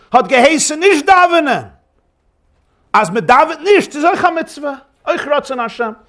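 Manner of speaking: high, eager and persuasive; excited rebuttal. Retold or imitated. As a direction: lift him out of his sorrow with joy. Zusha cheerfully rebuts his brother.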